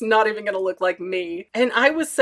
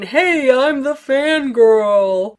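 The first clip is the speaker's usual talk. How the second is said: loud proud announcement; 4 semitones higher, 6 dB louder, much slower than usual. Pretend. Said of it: "waving a flag saying".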